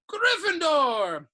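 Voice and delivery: high, loud announcing shout; hat's shout. A narrator's reading. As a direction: call the house out proudly to the hall. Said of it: "When it finally shouted".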